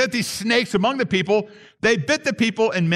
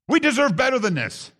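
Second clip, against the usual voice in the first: higher, rising take on the entitled people; higher, pressed "We deserve better than this"; entitled complaint; 5 semitones higher than usual. Retold or imitated. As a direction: push the complaint up as it builds. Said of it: "This is what they're really saying".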